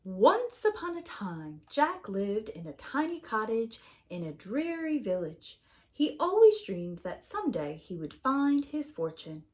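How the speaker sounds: put-on bright read-aloud to kids; storytime narration. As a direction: read it like story time for children. Reading a picture book to children.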